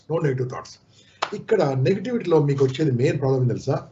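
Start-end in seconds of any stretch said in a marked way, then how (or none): 0.1-0.7 "no negative thoughts" dropped to a soft repeat; softer echo. Shown as a demonstration. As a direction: say "no" again, much softer. (మెల్లగా మళ్ళీ "no negative thoughts")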